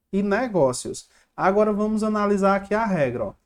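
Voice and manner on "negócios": negócios with its middle syllable marked as strongest; sílaba tônica destacada. Shown as a demonstration. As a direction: stress the GÓ in negócios. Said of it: "Tô destacando aqui a sílaba mais forte". (destaque o GÓ de negócios)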